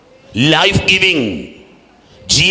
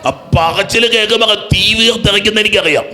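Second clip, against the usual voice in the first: raised, insistent preacher's pitch; impassioned high-pitched exhortation; fervent preaching; 4 semitones higher than usual. Retold or imitated. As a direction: testify with passion, then challenge the crowd. Preaching retold testimony and challenge.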